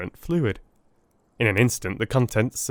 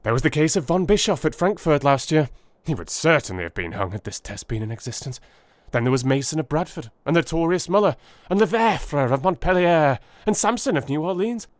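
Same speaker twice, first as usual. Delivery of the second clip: high, eager rush of explanation; eager Holmes; 3 semitones higher than usual. Acted. Holmes urging Watson to see the test's value, excited. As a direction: press the discovery on him excitedly.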